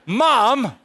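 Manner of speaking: put-on high, loud childish complaint; a kid losing musical chairs, loud whine; whiny kid. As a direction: whine like a sore loser. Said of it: "It's like".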